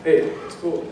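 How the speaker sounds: soft, casual reassurance, imitating a co-star; retold reassurance. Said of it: "him just sort of being like".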